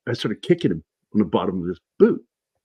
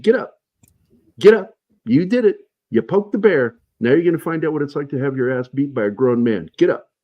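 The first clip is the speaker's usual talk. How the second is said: angry yell; 5 semitones higher than usual. Retold or imitated. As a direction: bark orders at the man on the ground. Retells yelling at downed recruit.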